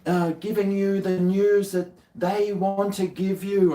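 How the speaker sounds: high, slow, official announcer voice; mock news voice. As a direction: ham up an official warning. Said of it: "all those things".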